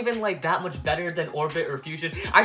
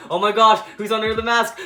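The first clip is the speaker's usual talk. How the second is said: repeated louder, hammed-up excitement; louder mock gasp; 3 semitones higher, 4 dB louder than usual. Vlogger mocks the mask hype, hammed-up excited gasp. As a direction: push the mock suspense up a notch. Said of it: "the mask thing was all like".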